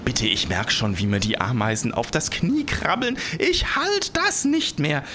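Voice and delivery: plea climbing to a very high, stretched cry; barely holding out. A narrator's reading. The giant begs as ants reach his knee, barely holding out. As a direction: build to desperate breaking point. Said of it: "der es kaum noch aushalten konnte".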